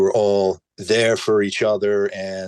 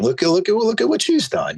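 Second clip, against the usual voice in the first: emphatic urging; 13 semitones higher than usual. Real, not acted. Emphatic urging about her example.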